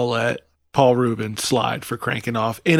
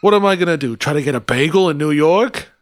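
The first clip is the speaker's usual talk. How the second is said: hammed-up Jersey complaint, rising higher on sweet Taylor ham; New Jersey accent; 4 semitones higher, 3 dB louder than usual. Jersey guy scorning New York bagels, New Jersey accent. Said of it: "New Jersey".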